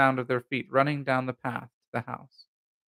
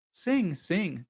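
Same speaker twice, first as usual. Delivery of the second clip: higher, lightly amused urging; laughing plea; 6 semitones higher than usual. A narrator's reading. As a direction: coax with a touch of laughter.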